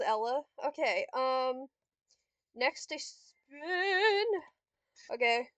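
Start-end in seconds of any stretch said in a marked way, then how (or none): 2.5-4.2 playful long-held rise; slow, sing-song finish; drawn-out spin. Real, not acted. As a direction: stretch the last word, rising higher. Playfully calls out her spin.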